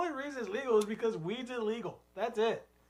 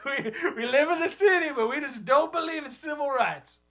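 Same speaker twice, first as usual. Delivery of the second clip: conservative city hipster; 4 semitones higher than usual. Pretend. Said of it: "type of guy like that".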